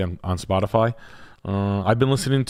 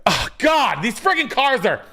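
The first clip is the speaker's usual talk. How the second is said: high, fussy put-on realtor voice; a much higher, prissy realtor voice; realtor impression; 12 semitones higher than usual. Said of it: "And he's like".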